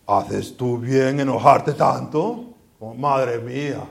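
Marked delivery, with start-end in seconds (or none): 0.1-2.4 questioning tone. Shown as a demonstration. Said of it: "se puede decir de diferentes maneras".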